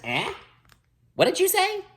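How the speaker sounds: put-on very high, cracked old woman asking; high deaf old witch. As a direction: screech it like a hard-of-hearing crone.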